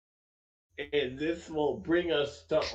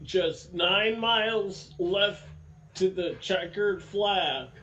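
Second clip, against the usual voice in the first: excited; 5 semitones higher than usual. Real, not acted. Race restart build-up.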